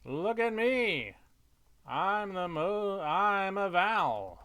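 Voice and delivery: high, loud, drawn-out show-off cry; mock yelling. Show-off vowel yelling around town, high mock yell. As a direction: crow it out for attention.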